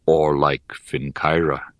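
put-on low, calm old mentor; wise old teacher voice. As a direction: speak like a grave old sage. Cairpray speaks, low voice.

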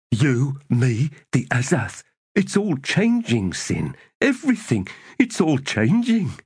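high-pitched character voice; urgent young Grub. A narrator's reading. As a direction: lift the voice high, insistently. Voices Grub speaking to Sin.

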